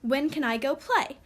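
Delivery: "When can I go play" asked as a simple question; "When can I go play" as a question, not especially excited; question awaiting answer. Shown as a demonstration. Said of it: "As if we're waiting for an answer".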